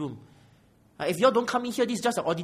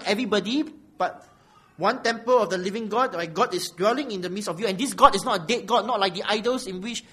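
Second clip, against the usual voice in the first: louder, insistent sermon delivery; forceful preaching; 5 semitones higher, 7 dB louder than usual. Real, not acted. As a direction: press the point on the congregation.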